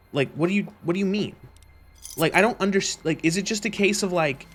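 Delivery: baffled, pitch climbing; exasperated bafflement. Real, not acted. Gamer questions a commenter's unclear point, exasperated. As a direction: demand an explanation in disbelief.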